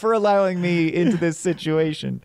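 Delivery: mock cry to heaven. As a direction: drag it out like a man cursing the sky. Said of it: "He's just going".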